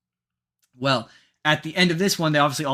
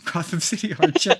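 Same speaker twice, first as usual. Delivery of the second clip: echoed Irish Batman; 3 semitones higher than usual. Pretend. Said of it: "echoing the Irish Batman".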